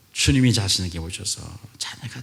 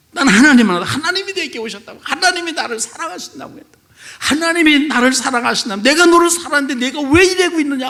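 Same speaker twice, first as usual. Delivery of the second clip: excited testimony; 11 semitones higher, 6 dB louder than usual. Retold or imitated. Elder telling doctors, excited.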